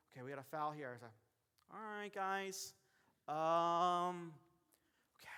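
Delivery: hesitant, halting delivery with long pauses; unsure referee. Acted. Referee nervously announcing a foul to the crowd, hesitant and halting. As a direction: stall and stumble through the call, dragging it out. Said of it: "You will never see a basketball referee say".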